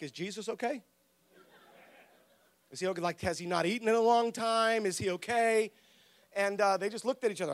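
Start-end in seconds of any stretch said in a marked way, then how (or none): 0.0-5.7 hushed, worried aside about Jesus; worried murmur. Retold or imitated. Disciples wondering about Jesus among themselves, hushed worry. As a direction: mutter it so Jesus won't hear.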